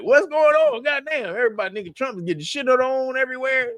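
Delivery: mock panicked fans. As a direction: play the rattled supporters. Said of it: "they were like".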